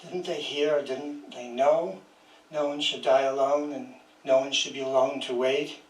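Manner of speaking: measured, even poem reading voice; poetry reading. Acted. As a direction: read each line as a poem, letting it settle. Reads her poem aloud.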